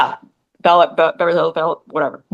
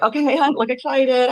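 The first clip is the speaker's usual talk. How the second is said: mock producer coaxing; 5 semitones higher than usual. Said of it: "You know, like".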